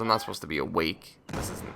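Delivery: words through a yawn. Real, not acted. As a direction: yawn while saying it. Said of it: "I apologize for the yawning".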